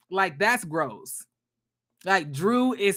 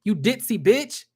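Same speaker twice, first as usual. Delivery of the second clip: mock angry snap; 3 semitones higher, slower than usual. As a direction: snap it at her like Sheree cutting in. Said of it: "she's like".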